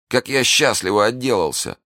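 high-pitched, fearful relief; frightened servant. A narrator's reading. Planchet relieved at escaping poison, frightened. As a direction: marvel shakenly at a narrow escape. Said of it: "пробормотал Планше, полумёртвый от страха".

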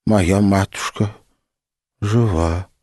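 lightly voiced pious old woman; just a hint of an old pilgrim woman; old praying woman voice. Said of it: "голосом старушки-богомолицы сказала она".

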